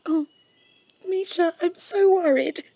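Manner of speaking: wife tearfully pleading with Misha over their son; tearful worry. Acted. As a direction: let the fear break through into tears. Mother fears for sick son.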